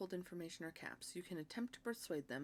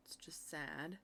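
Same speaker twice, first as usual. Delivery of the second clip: whispering; slower than usual. Real, not acted. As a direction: breathe it out sadly. Sad sight of dead people.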